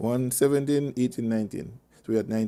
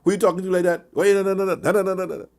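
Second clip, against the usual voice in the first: mock indignation; 5 semitones higher, faster than usual. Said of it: "It will start a big fight".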